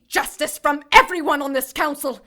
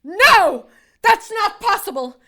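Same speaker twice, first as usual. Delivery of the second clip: shocked protest; 5 semitones higher, 4 dB louder, slower than usual. Acted. Archangel hears sentence of stripping.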